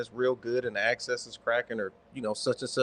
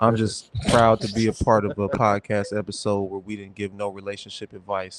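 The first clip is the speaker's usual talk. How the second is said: sexy voice; 4 semitones lower, 5 dB louder than usual. Pretend. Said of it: "in my sexy voice".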